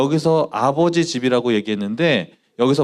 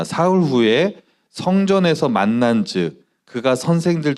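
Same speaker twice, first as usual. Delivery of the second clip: scripture reading; 2 semitones lower than usual. Acted. Reads scripture aloud.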